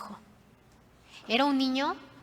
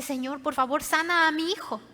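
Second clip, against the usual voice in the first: acted pleading, rising higher on sana; repeated plea; 4 semitones higher than usual. Father asking Jesus once more to heal his son, earnest plea. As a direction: beg earnestly, lifting into the request. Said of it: "le vuelve a decir".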